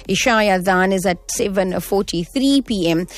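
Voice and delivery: upbeat on-air show rundown; radio presenter read. Acted.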